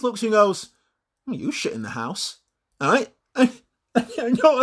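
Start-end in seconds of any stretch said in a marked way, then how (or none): 1.3-2.4 blasé retort. Acted. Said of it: "completely blasé".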